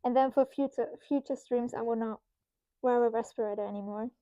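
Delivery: muffled behind a mask; through a face mask. Real, not acted. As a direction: speak through a respirator. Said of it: "because I'm wearing a mask right now".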